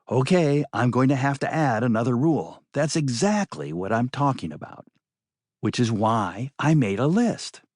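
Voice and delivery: a lightly voiced stern woman. Maddie voiced, stern and insistent.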